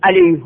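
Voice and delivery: علیه said as alayhu, with a rounded final هُ; alayhu with damma. Shown as a demonstration. Teacher shows the original damma on the pronoun. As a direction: say علیه with the u vowel on the ha. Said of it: "به ضمه که حرکت اصلیشه".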